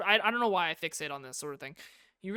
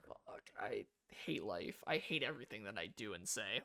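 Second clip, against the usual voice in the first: hushed self-loathing; 10 semitones lower, 10 dB quieter than usual. Acted. Self-loathing muttered line.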